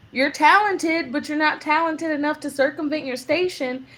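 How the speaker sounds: lofty voice looking down on her; mock snooty faculty. Teachers dismissing a student, high and haughty. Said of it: "And they were like".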